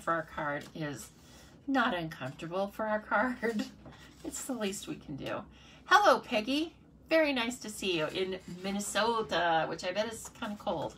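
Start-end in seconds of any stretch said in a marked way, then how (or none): 5.9-10.9 lightly attempted Minnesota accent; lame Minnesota accent. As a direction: badly fake a Minnesota greeting. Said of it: "Sorry for that really lame accent".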